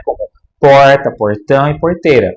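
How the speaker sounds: porta, portão e porteira with a curled caipira R; R caipira do interior em porta, portão e porteira; retroflex R. Shown as a demonstration. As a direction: curl the tongue back on each R of porta, portão, porteira. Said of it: "R retroflexo, interior de São Paulo".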